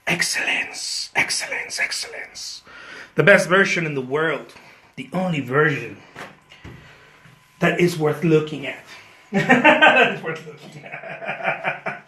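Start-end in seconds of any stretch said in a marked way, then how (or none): 0.1-2.6 breathy whisper, each word softer. Pretend. Whispered title repeated. 9.3-12.0 words broken by laughter; laughing. Real, not acted. Laughs while repeating.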